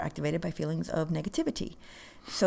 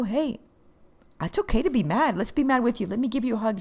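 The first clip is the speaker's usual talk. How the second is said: higher, soothing reassurance to an angry resident; reassuring; 4 semitones higher than usual. Retold or imitated. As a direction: comfort her gently, a little raised. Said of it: "I let her know".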